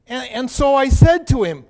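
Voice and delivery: put-on indignant, self-righteous young man telling his story; a hurt, defensive rich young man recalls meeting Jesus. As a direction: play the proud rich man, wounded and defensive. First-person monologue as the rich young man.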